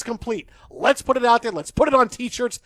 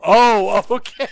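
normal talking voice

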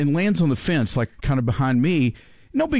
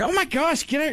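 higher mock-startled "get out"; a wife shooing a bird, voiced higher; 11 semitones higher than usual. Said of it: "she's like".

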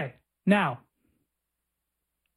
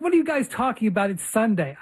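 retold baffled question; 3 semitones higher than usual. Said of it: "He was like".

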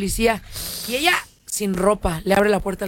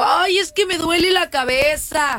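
whiny excuse; 5 semitones higher, slower than usual. Retold or imitated. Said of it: "Y el otro le dijo".

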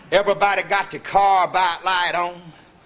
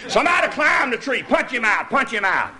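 excited shout; 3 semitones higher than usual. Retold or imitated. Same words repeated.

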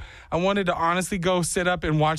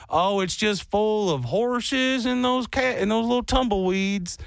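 ignorant outsider; 4 semitones higher than usual. Retold or imitated. Voices outsiders' idea of Texas.

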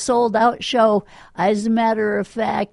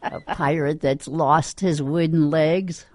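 laughing; 3 semitones lower than usual. Real, not acted. Repeating the joke while laughing.

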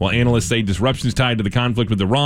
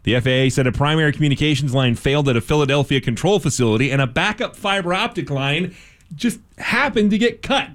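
steady radio news delivery; measured news-anchor reading. Acted. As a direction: read it as a local newscast. Reads news story.

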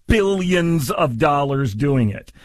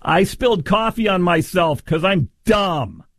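mock plaintiff. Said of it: "what she's saying is".

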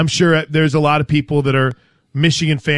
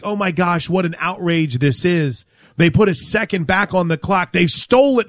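hammed-up indignant protest, pitched higher; mock outrage; 4 semitones higher than usual. Host imagines losing fan protesting stolen game, mock outrage. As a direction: play the aggrieved fan, building to a higher finish. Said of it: "I would be losing my mind".

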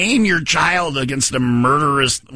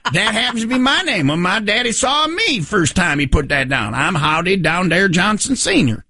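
father character; 4 semitones higher than usual. Acted. Plays the proud father.

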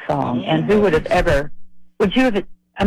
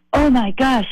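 higher, imitated Indian accent; bad Indian accent; 7 semitones higher than usual. Clerk from India stopped cold by meeting the singer, mock Indian accent. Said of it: "That's my bad Indian accent".

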